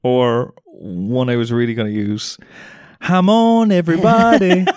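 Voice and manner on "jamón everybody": jamón, everybody, called out loudly; loud announcing. Acted. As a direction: belt it like a game show host. Punning Spanish game name, shouted.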